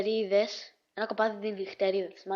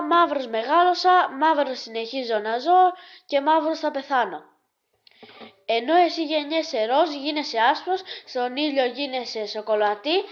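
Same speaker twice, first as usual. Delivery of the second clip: raised, insistent mock protest; acted indignation; 4 semitones higher, 5 dB louder than usual. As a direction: argue back loudly, as in a joke. Acted indignant speech in a joke. (δήθεν αγανακτισμένη διαμαρτυρία)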